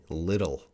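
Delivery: little as American "liddle". Shown as a demonstration. Teacher summing up the American sound, TT like DD. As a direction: say "little" with a D-like flap. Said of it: "gonna sound like D D".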